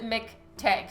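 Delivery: McTeague said with its ending as "teg"; name pronunciation shown. Shown as a demonstration. Telling new viewers how to say the name, McTeague ending in "teg". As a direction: say McTeague so the last part sounds like T-E-G. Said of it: "so T E G, pretend that's all it is".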